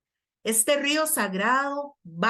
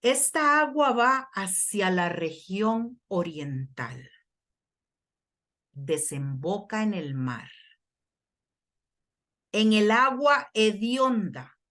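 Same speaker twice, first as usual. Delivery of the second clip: deliberate scripture reading with long pauses; slow reading. Real, not acted. Preacher reads Ezekiel slowly so the congregation can follow. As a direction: read phrase by phrase, leaning on key words. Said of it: "Lo voy a leer despacio".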